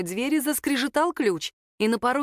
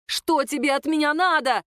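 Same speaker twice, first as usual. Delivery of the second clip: yelling back; 6 semitones higher than usual. A narrator's reading. Ника орёт в ответ чужаку — крик. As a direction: shout it at him in panic. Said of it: "заорала в ответ Ника".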